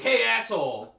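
retold shout.

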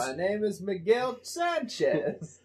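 slow, put-on Hutz voice; slow mock introduction; Lionel Hutz voice. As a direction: say it like a shady lawyer in disguise. Echoing Lionel Hutz line.

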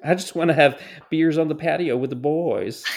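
a light put-on Brampton accent, laid back; mock Brampton accent. Mocking protesters to her cohost, light Brampton accent. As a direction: drop into a jokey Brampton accent. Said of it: "Is that a Brampton accent?".

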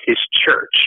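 HIS picked out in "his church"; emphasize "his" before "church"; stress on HIS. Real, not acted. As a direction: lean on the word "his". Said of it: "I emphasize the word his".

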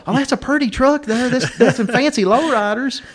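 imitating an admiring country woman, high-pitched; hillbilly woman. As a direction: coo over the trucks in a mock woman's voice. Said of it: "and she's like".

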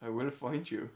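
lightly put-on Irish accent; slight Irish lilt on a film threat; Liam Neeson. Co-host repeats the film threat, Irish accent. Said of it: "He's not that Irish in it".

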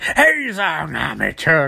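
very slow, put-on cackling villain; theatrical villain voice. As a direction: drag each word out like a grand cartoon villain. Trickster voice again.

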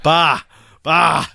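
high, loud prompting bark; impatient, emphatic sounding out; frustrated sister. Retold or imitated. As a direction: imitate an exasperated kid giving the answer. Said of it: "getting frustrated too".

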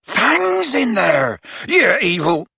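high, drawn-out bellow; anguished bellow. A narrator's reading. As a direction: bellow it in outrage. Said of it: "Hagrid bellowed".

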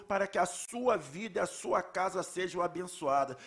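fervent spoken prayer; praying aloud. Acted. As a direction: pray it earnestly over the congregation. Leads a congregational prayer.

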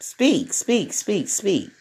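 softly repeated urging, imitated; quiet, insistent little prompts; hushed prompting. Imitating those who tell her to speak, hushed urging.

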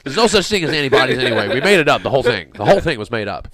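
loud, laughing mock American accent; bad American accent. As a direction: ham up a Yank accent. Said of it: "that's a really bad American accent on my part".

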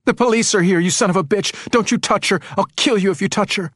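high, furious threatening shout. A narrator's reading. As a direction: shout down the intruder in panic. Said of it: "She shouted into the microphone".

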